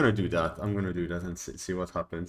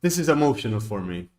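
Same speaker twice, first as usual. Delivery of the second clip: dawning joy; 6 semitones higher, 8 dB louder than usual. Real, not acted. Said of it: "I'm crying".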